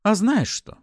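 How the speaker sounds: high, loud outburst; blurted out. A narrator's reading. Wife snapping at her husband, blurted. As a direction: burst out with it suddenly. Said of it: "внезапно выпалила она".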